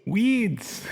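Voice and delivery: "Weeds" stretched out, falling at the end; clarifying a word. Acted. Host repeating slang for baffled co-host, drawn-out clarifying. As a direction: repeat "Weeds" as one long, insistent word. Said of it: "having trouble understanding my Australian accent".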